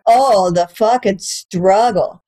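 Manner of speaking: slow, dragged-out mock sympathy; sarcastic pity. Comic mocking her girlfriend's German-class complaint, slow and sarcastic. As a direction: drag it out, mocking the gripe.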